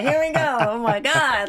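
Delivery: high, keyed-up "here we go"; nervous excitement. Retold or imitated. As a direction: hype yourself up, a bit scared. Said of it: "I'm like".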